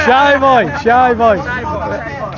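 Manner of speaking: teasing. Real, not acted. Teasing a shy stall worker.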